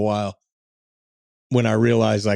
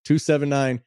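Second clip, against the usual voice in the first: infomercial voice; 2 semitones higher than usual. Acted. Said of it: "You sound like an infomercial".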